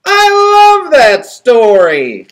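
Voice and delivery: high, slow troll voice; drawn out dreamy troll. A narrator's reading. Troll character speaks.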